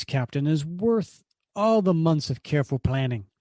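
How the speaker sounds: lightly voiced gloating baron; villain Zemo gloating. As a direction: savour the reveal like a proud villain. Comic villain speech read aloud.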